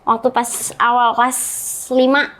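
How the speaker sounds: talking around a cigarette; cigarette in mouth. Real, not acted. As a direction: speak with a cigarette between lips. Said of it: "sambil ngerokok boleh?".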